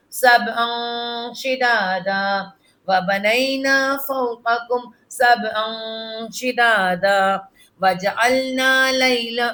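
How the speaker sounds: slow, measured tilawat; slow melodic Quran recitation. Acted. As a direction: chant each verse slowly and evenly for the pupil. Leads the recitation.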